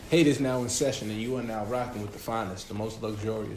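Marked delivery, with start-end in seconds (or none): 0.1-1.1 town crier. Acted. Mock court opening.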